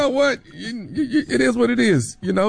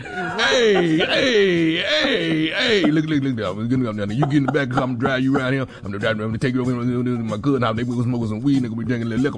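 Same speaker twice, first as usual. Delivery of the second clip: voicing the boyfriend; 3 semitones lower than usual. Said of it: "hard to hold that little character right there".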